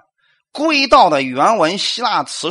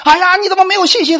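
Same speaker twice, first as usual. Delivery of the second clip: much higher, fast reproachful question; mock scolding; 14 semitones higher, 5 dB louder, faster than usual. Pastor mimicking Christians scolding others, higher mock reproach. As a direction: chide a fellow believer, hammed-up. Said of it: "我们总是说".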